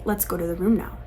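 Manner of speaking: low, soft, unhurried instruction; very calm. Acted. Parent sending a child to the room, very calmly. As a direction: say it calmly, keeping the voice down. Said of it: "very calmly say".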